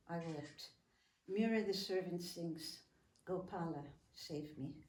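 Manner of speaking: measured poem reading with pauses; poem recitation. Acted.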